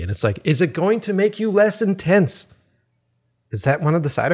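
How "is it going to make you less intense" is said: sarcastic question. Retold or imitated. Sarcastic retort to friend.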